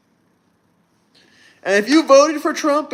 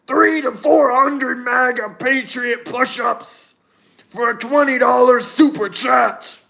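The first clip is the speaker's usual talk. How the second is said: wrestler voice. Retold or imitated. Repeats the Hulk Hogan bit.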